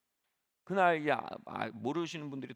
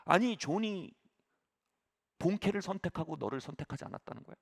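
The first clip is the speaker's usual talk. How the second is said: mock anger; 6 semitones higher than usual. Friend teasing the pastor about being passed over, mock anger. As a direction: play-act being offended on his behalf. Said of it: "농담하는 것처럼 갑자기 장난처럼 막 화를 내는 거예요".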